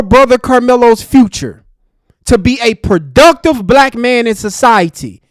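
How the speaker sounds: loud, slow, furious accusation; real fury, punching out your people; furious rant. Real, not acted. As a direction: hammer each word at her in real anger.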